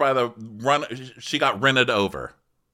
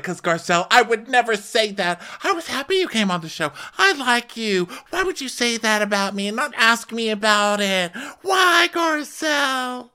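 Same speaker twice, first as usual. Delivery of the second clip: high mock-tearful protest; hammed-up pleading; 12 semitones higher than usual. Rinna protesting hurt to Garcelle, hammed-up pleading. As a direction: plead shrilly, dragging out the last words.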